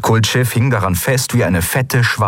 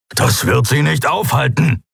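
understated angry protest, pitched up; raging; 6 semitones higher than usual. Acted. Keru objects that doors won't stop them, angry. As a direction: rage at the useless measure, raised pitch. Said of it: "wütete Keru".

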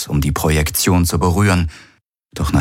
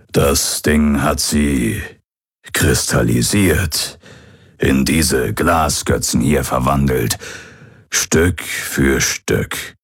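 put-on grim old pirate; 2 semitones lower, slower than usual. Hologram father telling his son his people are dead, slow and grave. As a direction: break the bad news gently but plainly.

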